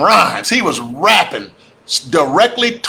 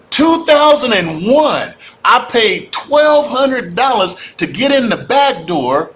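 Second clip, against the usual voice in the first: excited, laughing; 5 semitones higher, slower than usual. Real, not acted. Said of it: "I get all excited about this".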